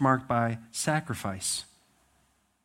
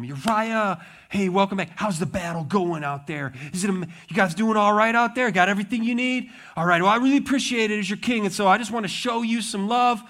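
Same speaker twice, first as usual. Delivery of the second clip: fake friendly king; 8 semitones higher, 6 dB louder than usual. King flatters Uriah with a motive.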